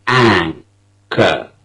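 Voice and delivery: "Anchor" with a long stressed AN and short kor; "Anchor" with the final R dropped. Shown as a demonstration. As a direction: hit the first syllable of "Anchor". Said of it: "Two syllables".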